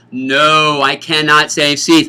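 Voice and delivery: a firm rule said loudly to students. Shown as a demonstration. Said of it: "Let me repeat that".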